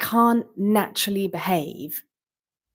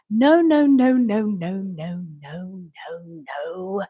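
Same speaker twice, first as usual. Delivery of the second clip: emphatic no; slower than usual. Real, not acted. Rejecting critics, fading out.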